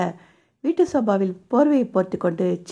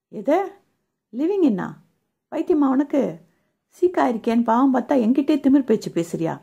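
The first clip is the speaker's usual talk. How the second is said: higher, indignant burst of hurt anger; angry outburst; 3 semitones higher than usual. Acted. Offended man storming at the woman he nursed, angry. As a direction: flare up, spit the words back at her. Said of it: "என படபடத்தவன்".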